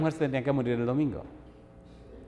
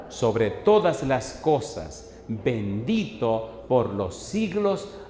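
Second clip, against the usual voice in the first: very slow, drawn-out scripture reading; lectura bíblica enfática; 4 dB louder, much slower than usual. Acted. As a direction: proclaim the verse word by word. Reads scripture aloud emphatically. (proclamación bíblica lenta y enfática)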